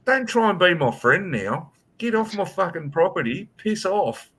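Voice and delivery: hammed-up order to get off his property; retold angry dismissal. Homeowner ordering the apologising cop off his property, mock-angry. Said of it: "I was like".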